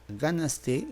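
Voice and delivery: "ganaste" slowly, leaning on the first syllable GA; stress on GA. Shown as a demonstration. Teacher testing where the stress falls, stressed on GA. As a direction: stretch "ganaste" as GÁ-nas-te. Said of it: "¿Cuál es la sílaba tónica?".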